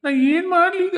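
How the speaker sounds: very high, sobbing break on ಮಾಡ್ಲಿ; hammed-up crying wail; comic wail. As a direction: blubber the question like a crybaby ghost. Ghost lamenting, repeated.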